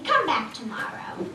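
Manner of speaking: lightly voiced dragon dismissing her; dragon brushing off. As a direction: shoo her away offhand.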